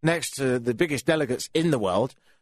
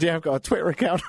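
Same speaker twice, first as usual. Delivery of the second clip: laughing; faster than usual. Retold or imitated. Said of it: "I said".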